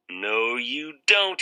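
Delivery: slow drawn-out menace; vampire Harvey. Acted. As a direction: stretch the threat out slowly. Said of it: "he thought".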